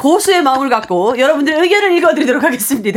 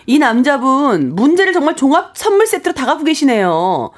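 angry tone; 4 semitones higher than usual. Acted. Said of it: "저는 화난 톤에 뭐 얘기를 전해드릴 거예요".

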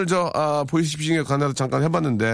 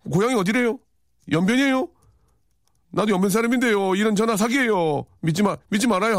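put-on Yanbian accent; 8 semitones higher than usual. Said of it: "연변 말투 ... 전화 건 사람이".

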